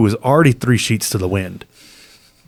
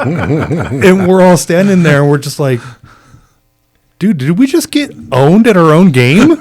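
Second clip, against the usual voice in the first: laughing at being out-pranked; 7 semitones higher, 5 dB louder than usual. Real, not acted. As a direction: laugh through it. Laughing while retelling punchline.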